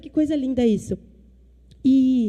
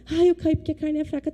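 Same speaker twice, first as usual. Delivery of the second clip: mock excuse; 2 semitones higher, faster than usual. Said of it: "A gente dá essas desculpas".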